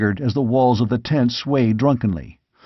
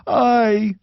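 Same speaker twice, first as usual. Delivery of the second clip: high, understated tearful answer; a touch of grief in one word; mild sob; 10 semitones higher than usual. A narrator's reading. Squire admits the rout to the king, lightly tearful. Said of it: "sobbed the squire".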